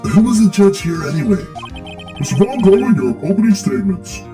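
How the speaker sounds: mistaken judge voice; wrong voice. Acted. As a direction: read the judge in the wrong character's voice. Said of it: "Oh, wrong voice, sorry".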